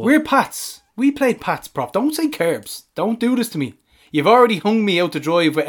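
high, urgent pleading; excited protest. Real, not acted. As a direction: beg him not to say it.

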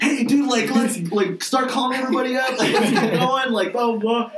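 high, eager, laughing through it; half-awake and raring to go; groggy excited wake-up. Retold or imitated. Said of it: "and was like".

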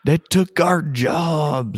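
slow, high hammed-up redneck drawl; mock South Park redneck. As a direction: stretch it out like a cartoon redneck. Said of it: "your best redneck voice".

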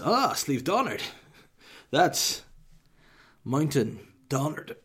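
high, swooping, exaggerated impression; mocking wife's voice. Husband imitating his wife explaining Irish, mocking and swooping. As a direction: send her up with big pitch swoops and pauses. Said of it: "that's the way she speaks".

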